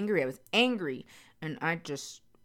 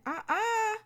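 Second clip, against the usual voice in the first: emphatic refusal. Real, not acted. Refusing to do it again.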